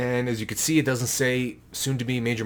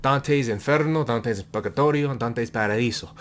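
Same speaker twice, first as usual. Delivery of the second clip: half-joking Spanish accent on the Dante titles; a hint of Spanish accent; mock Spanish accent. Shown as a demonstration. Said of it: "that was a Spanish accent".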